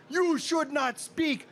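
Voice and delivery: slow, high, measured mock reproach; indignant rebuke. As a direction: imitate a stern telling-off, word by word. Ted rebukes the insulting clown.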